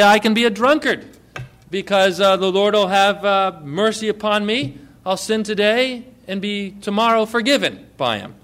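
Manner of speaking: half-hearted smug sinner voice; mock drunkard. Pastor imitates a drunkard presuming forgiveness, loud and smug. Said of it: "Or don't say".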